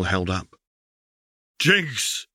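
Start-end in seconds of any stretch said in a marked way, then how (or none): 1.6-2.3 sharp high call of a name; high, urgent shout. Acted. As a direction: call out her sister's name. Vi calls out.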